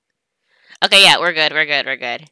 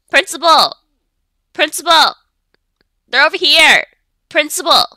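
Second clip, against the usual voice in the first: calling out; 6 semitones higher, 4 dB louder than usual. Real, not acted. Calling out to the principal.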